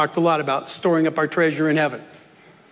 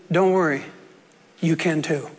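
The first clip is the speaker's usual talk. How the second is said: measured, understated encouragement. Shown as a demonstration. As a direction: gently settle it on the last words. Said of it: "as in".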